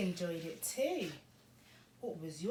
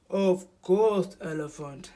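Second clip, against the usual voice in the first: loud, hearty hippo reply; welcoming Hippo; 8 dB louder than usual. A narrator's reading. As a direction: agree heartily as a story hippo.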